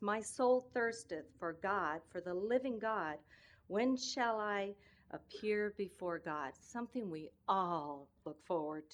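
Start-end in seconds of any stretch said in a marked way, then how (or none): 0.0-6.5 scripture reading. Acted. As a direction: read it out like a sermon text. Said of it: "I'm gonna read some of, uh, David's words".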